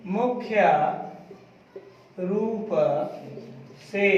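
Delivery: one word at a time, long gaps between; slow dictation. Real, not acted. Teacher dictates while class writes. (एक-एक शब्द रुक-रुक कर लिखवाना)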